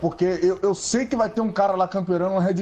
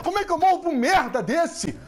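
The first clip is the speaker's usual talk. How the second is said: laughing in disbelief; 8 semitones higher than usual. Real, not acted. Rage mid-game, laughing in disbelief.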